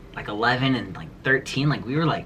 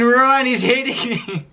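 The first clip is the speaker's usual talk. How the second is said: high, slow imitation of a shrieking grandma; mock grandma scream; 9 semitones higher, slower than usual. Grandma screaming to Ron while grandson swings, mock high wail. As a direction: ham up grandma yelling for her husband. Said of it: "she's screaming".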